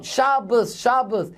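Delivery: half-hearted retold call to the street; retold joining shout. Rabbi joining the demonstration, mildly imitated shout. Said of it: "he as well started to shout".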